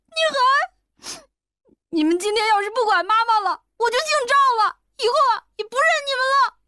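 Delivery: put-on high, tearful boy's voice, breaking into sobs; a young boy sobbing at his father; crying child. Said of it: "哭道". (小男孩哭着对爸爸喊)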